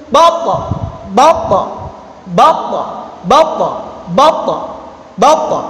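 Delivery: "bako" with its middle consonant stopped and a short echo; held sound. Shown as a demonstration. Teacher drilling suara tertahan, held sound. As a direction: check "bako" sharply before the ending. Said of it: "Ini suara terta".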